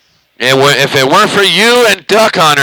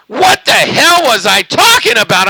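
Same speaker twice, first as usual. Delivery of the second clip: pitched way up, shocked at himself; high, incredulous "what was I saying"; mock disbelief; 11 semitones higher than usual. Replaying his own drunk radio talk, high disbelief. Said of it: "and I was like".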